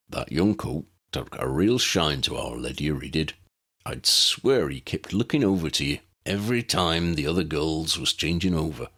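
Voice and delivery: a hint of a beaming Hagrid; Hagrid, fond and proud. Hagrid's dialogue in story.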